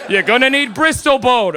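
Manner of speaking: slow, drawn-out British presenter; put-on British host, stretching each item; British accent. Comic mimics Art Attack host getting weird, slow British accent. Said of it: "a show with a British guy".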